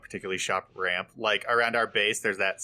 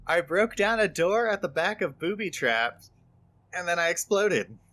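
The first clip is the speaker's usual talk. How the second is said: bewildered recounting; 7 semitones higher than usual. Real, not acted. Recounts being blown up.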